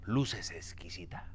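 pickup line. Retold or imitated. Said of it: "la frase que yo usaba".

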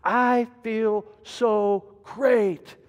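slow, elated sigh of relief; imitated relief. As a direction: savour the joy of being free. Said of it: "you say".

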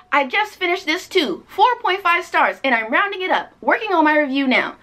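lifted, bright reader's voice; cheery quoting of a fan review. Retold or imitated. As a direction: read it like a sunny fan. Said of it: "Debbie says".

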